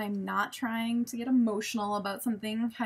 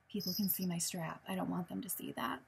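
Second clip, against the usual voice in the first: quiet worried; 3 semitones lower, 6 dB quieter than usual. Retold or imitated. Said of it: "being like".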